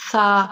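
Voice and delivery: سا said thin and soft, tongue tip on the upper front teeth; a light, fine سا with no heaviness; soft thin saa. Shown as a demonstration. Teacher demonstrating a thin, soft سا to students. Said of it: "سا کو باریک اور نرم پڑھتے ہیں".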